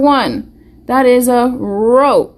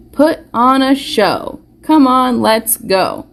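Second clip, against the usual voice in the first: sing-song rhyme read with a slow start; reading a rhyme to kids; 2 semitones higher, slower than usual. Shown as a demonstration. Teacher reading a jump rope rhyme aloud to children. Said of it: "Let's read up top".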